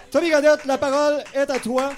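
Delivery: loud, high host handover; announcer intro. Real, not acted. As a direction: present the next speaker with flair. (présentation d'animateur, forte et enjouée)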